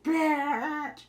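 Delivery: high, loud insult; imitating a woman insulting a rival; hostile snap. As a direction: spit the word at her. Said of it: "And she's like".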